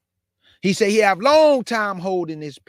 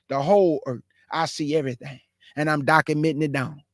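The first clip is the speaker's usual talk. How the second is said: earnest prayer. Acted. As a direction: pray aloud for the people's sins. Prayer to the Father.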